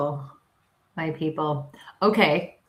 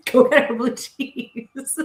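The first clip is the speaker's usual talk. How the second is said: slow insistent order; 6 semitones higher, 4 dB louder, much slower than usual. Retold or imitated.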